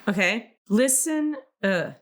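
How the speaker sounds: measured oracle reading voice; card reading. Shown as a demonstration. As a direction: read the card aloud, unhurried. Reads oracle card text aloud.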